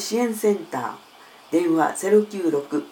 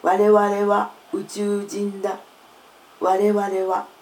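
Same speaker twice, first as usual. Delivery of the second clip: alien voice. Pretend. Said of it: "宇宙人みたいな声になる".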